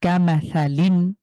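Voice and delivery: কামাসালিন slow, with a breathy কা and the tongue out for সা; corrected pronunciation. Shown as a demonstration. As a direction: model কামাসালিন slowly and precisely. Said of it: "কার উচ্চারণটা আরেকটু বাতাস বের হবে". (ধীরে শুদ্ধ উচ্চারণ)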